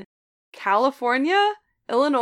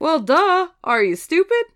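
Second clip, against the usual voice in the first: snauwende klant; 5 semitones higher, 4 dB louder than usual. Retold or imitated. Story: rude customer snaps back.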